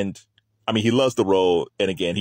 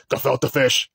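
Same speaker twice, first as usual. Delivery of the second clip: put-on New York accent; 4 semitones higher, slower than usual. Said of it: "he got this New York accent".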